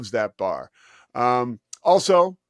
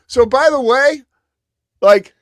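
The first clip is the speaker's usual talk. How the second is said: high, loud, laughing delivery; real amusement bursting through, pitched way up; cracking up; 11 semitones higher, 8 dB louder than usual. Real, not acted. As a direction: barely get the words out before laughing. Cracking up over the tweet.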